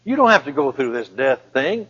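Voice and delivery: Satan tempting. Acted. Satan offers Jesus a way out, coaxing. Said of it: "Satan said".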